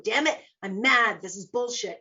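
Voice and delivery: punchy, indignant self-justifying complaint; mock anger. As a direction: grumble it with a jolt of mock anger. Acting out being stuck in anger.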